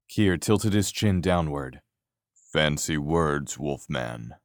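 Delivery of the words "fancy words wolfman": dry sarcastic. Acted. Kier's dry jab at Jed.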